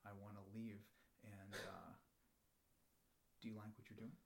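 soft, low and guarded; hushed, low complaint; timid undertone. Acted. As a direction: say it under your breath, afraid of getting fired. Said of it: "I'm so afraid I'm gonna get fired".

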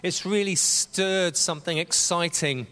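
talking round a sweet; sweet tucked in the cheek; mouth full. Real, not acted. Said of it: "I'm talking with a sweet in my".

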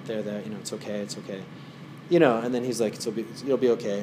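hushed there-there comfort. Retold or imitated. Dalai Lama comforting the crying girl, hushed and soft. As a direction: murmur it softly to calm her.

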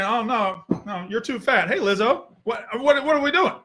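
mock husband voice. Mocking himself dumping wife.

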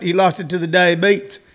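"diabetes" said "die-uh-beets", the t hard; down-home folks' "diabetes"; hometown pronunciation. Retold or imitated. Comic quoting hometown folks saying "diabetes" as "die-uh-beets". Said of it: "where I grew up".

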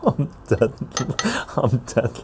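helpless giggle; dying of laughter; laughing. Real, not acted. Laughing at chat comment.

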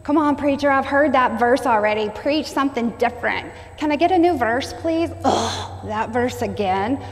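whiny, impatient heckler; lightly voiced complaining churchgoer mocking the preacher; mock know-it-all listener. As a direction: mimic a bored churchgoer. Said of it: "Examples of pride are assuming that you know something when somebody's preaching".

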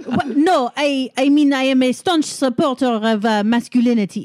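flustered laughing. Acted. Marcel flustered, GM laughing through.

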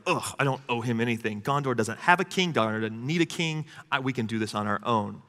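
soft mock whine; sulky, babyish grumbling; whiny man child. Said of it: "Boromir's whining like a baby".

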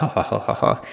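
put-on "ho ho" laugh; mock lecherous chuckling; hound-dog chuckle. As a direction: imitate a womanizer chuckling at himself. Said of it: "basically like a hound dog".

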